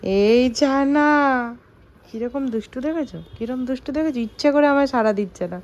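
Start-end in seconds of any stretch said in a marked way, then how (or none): 0.0-1.1 drawn-out call. Real, not acted. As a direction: stretch the name out to get her attention. Calling the child who ignores her.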